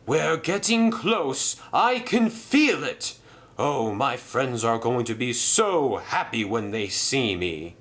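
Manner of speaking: sure success is near; optimistic engine. Acted.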